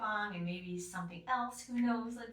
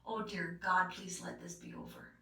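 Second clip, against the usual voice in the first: weak whisper; 3 semitones lower, 5 dB quieter than usual. Retold or imitated. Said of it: "putting my head on the pillow and going".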